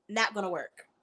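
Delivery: low, quiet verdict; low dismissal. Real, not acted. Dismissing dictionary reading as a fix, low dismissal. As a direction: drop it low and soft.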